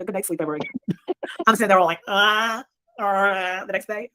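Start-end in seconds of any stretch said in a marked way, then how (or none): 2.1-3.7 groan. Retold or imitated. Acts out night on couch bed.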